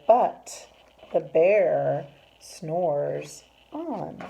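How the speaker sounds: lilting read-aloud with drawn-out line endings; story reading to children. A narrator's reading. Teacher reads rhyming bear book to children, lilting storytime voice. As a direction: read it to children, savouring the rhymes.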